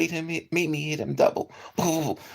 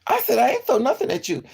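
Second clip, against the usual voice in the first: high-pitched, louder panicked protest; high loud denial; 7 semitones higher, 5 dB louder than usual. Retold or imitated. Denying before a fight.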